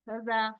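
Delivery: हजा with a short, unstretched "ha"; short vowel. Shown as a demonstration. Teacher showing students what not to read, short vowel. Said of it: "नहीं पढ़ेंगे ना".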